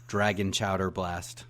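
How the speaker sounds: slow, deliberate haiku reading; poem recitation. Acted. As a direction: recite each line slowly like a poem. Reciting haiku after drum roll.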